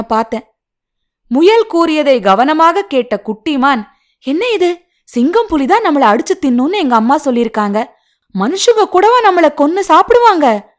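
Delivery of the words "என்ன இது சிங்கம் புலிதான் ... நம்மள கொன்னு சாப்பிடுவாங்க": higher-pitched, wondering little fawn; astonished question. Acted. Fawn asks rabbit about humans eating animals, astonished. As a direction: ask in surprise, pitch lifting on the questions. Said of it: "என்று ஆச்சரியமாக கேட்டது".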